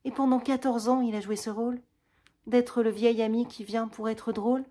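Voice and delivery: slow realisation. Acted. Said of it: "elle dit avec lenteur".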